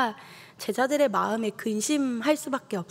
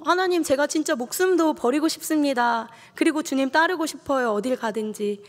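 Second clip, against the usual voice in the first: Peter's vow; 4 semitones higher than usual. Retold or imitated. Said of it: "베드로가".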